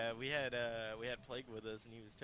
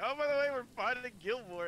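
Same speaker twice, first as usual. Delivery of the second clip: casual mock announcement; 12 semitones higher, 8 dB louder than usual. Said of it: "everybody was like".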